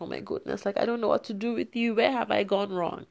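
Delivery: high, fast exasperated rant; exasperated mom. Retold or imitated. Mother at wits' end with her two-year-old, exasperated. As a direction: throw up your hands at the toddler.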